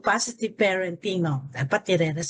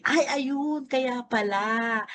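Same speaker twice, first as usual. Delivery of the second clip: slow, drawn-out sympathetic realization; understanding parent; 2 semitones higher, much slower than usual. Acted. Mother answering her hungry child, understanding and drawn out.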